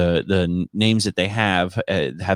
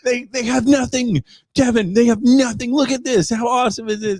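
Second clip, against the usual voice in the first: much higher, laughing showman pitch; imagined tour guide, laughing; 12 semitones higher than usual. Pretend. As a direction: sell the poverty as a thrill. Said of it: "I fully expected him to go".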